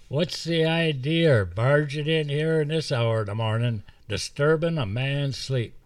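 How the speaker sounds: a lightly voiced squeal, lips barely moving; high-pitched squeal. Woodsman grumbles at boys barging in, squealing. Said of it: "Rancid's normal voice was a high-pitched squeal".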